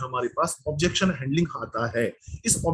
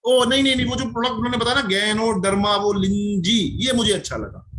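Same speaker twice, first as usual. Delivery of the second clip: raised, animated voice of a keen customer; eager prospect; 4 semitones higher than usual. Acted. Prospect answering the follow-up question, eagerly acted. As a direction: act out a prospect recalling what appealed, pitched up.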